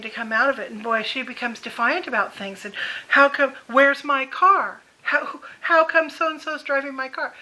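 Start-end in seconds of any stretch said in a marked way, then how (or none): 3.1-7.3 imitating demanding mother. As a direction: play the confused mother insisting. Mother demanding about her car.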